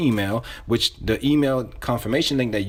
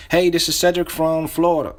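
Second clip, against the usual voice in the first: upbeat, higher-pitched sales greeting; enthusiastic; 5 semitones higher, 3 dB louder than usual. Shown as a demonstration. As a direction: open the cold call with real energy. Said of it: "you gotta say this with enthusiasm".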